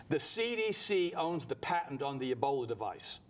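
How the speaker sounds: slow, weighty, every word spaced out; slow and deliberate. Shown as a demonstration. Radio host dropping a shocking claim to Herman, slow and deliberate. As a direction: lay out "The C D C owns the patent" slowly like a bombshell. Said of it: "this is gonna blow your mind".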